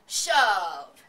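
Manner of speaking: loud heave shout. Acted. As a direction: bark the order to push together. Men pushing pig into crate.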